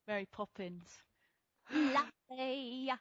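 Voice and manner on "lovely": Dick Van Dyke. Acted. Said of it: "like Dick Van Dyke".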